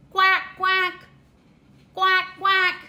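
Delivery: short, even duck quacks. Pretend. Teacher showing a toddler the duck's sound, short paired quacks. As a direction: quack lightly in pairs like a duck. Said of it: "What sound does a duck make?".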